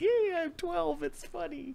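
very high, scratchy, squeaky chipmunk voice. Speaker showing the chipmunk voice they find hilarious: chipmunk voice. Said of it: "The chipmunk voice is just like".

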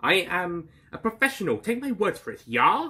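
terrible, high-pitched, put-on German accent. Playing Dr. Kaufman in a scene, terrible German accent. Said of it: "This is a terrible German accent".

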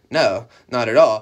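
put-on, mock-sarcastic tone. Retelling a woman's reply to him, imitating her sarcastic tone. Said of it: "she kind of said it like kind of like sarcastically".

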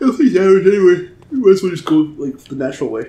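words stretched out by talking through a yawn. Giving advice to teammates mid-conversation, yawning while talking. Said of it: "I was yawning when I said that".

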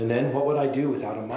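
usual speaking voice

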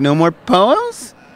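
Valley uptalk, rising lilt on poems. Showing how his accent makes everything sound like a question: rising like a question. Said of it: "it's part of my accent to make everything sound like a question".

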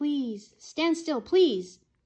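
very loud, desperate, pleading begging. Narrating a dog catcher's plea to someone in the story, begging. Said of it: "begged one of the two dog catchers".

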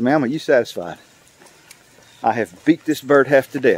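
usual speaking voice

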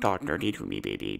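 very quiet, soft, creaky voice. Introducing himself as Stephen Hawking: Stephen Hawking voice. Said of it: "my name is Stephen Hawking".

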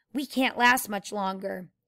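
ordinary delivery, nothing marked

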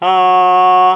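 steady, flat high first tone on a. Teaching the first tone, starting and ending at pitch five, high level tone on a. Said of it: "이게 일성입니다".

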